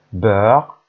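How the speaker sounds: beurre with a rounded eu and a French r. Shown as a demonstration. Teacher modelling beurre for the class. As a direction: say beurre the French way, loud and clear. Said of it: "sœur is sister".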